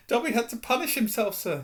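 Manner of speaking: high elf squeak; a servant stating his duty; house elf. Acted. Dobby explains.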